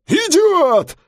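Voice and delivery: high, loud yell over brakes. Acted. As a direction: bark it at the jaywalker. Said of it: "заорал он".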